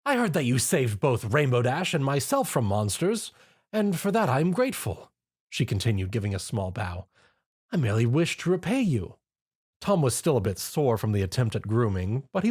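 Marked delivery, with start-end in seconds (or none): 0.0-9.2 sincere thanks; Rarity voice. Acted.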